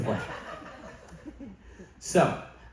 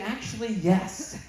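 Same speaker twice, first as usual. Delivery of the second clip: deliberate; 5 semitones higher, 4 dB quieter, slower than usual. Retold or imitated. Deadpan confession.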